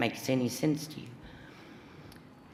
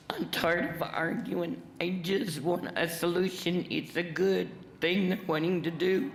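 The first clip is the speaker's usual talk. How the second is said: higher-pitched, heartfelt pleading; emotional plea; 4 semitones higher than usual. Real, not acted. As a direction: plead for a solution, overcome with emotion. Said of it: "very emotional".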